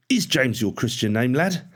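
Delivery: needling parade-ground interrogation; challenging drill sergeant. A narrator's reading. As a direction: challenge the recruit, pitch climbing at the end.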